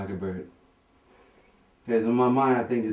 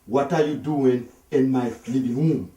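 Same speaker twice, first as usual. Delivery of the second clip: mock shouting; 4 semitones higher, 6 dB louder, slower than usual. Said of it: "I said, said".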